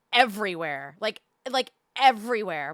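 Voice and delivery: ordinary talk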